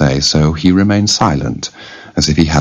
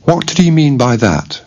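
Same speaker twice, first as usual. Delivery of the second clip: higher-pitched puzzled toy soldier; wondering tin soldier; 9 semitones higher than usual. A narrator's reading. Tin soldier left puzzled by the troll's threat, wondering. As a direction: wonder aloud, starting high and falling away. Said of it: "wondered the tin soldier".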